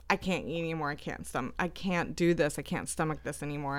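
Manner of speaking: low, soft, queasy protest; quiet queasy plea. Retold or imitated. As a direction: push the plate away, faintly sick. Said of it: "I'm just like".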